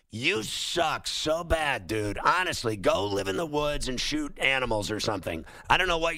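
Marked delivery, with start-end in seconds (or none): 0.1-2.2 slow, stretched contempt for the quarterback; scornful drawl. Acted. Host jeering the Steelers quarterback, slow scornful drawl. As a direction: drag out "you suck so bad" like a jeer.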